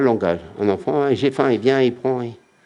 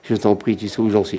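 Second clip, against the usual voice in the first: humble prayer. Acted. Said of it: "il dit".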